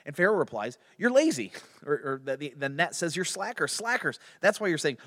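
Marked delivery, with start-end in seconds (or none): 1.0-1.5 high, loud mock accusation; hammed-up royal scolding; scornful retort. Pharaoh's arrogant retort acted out. 3.1-5.0 louder, higher mock scolding; scornful accusation. Pharaoh's insult acted out.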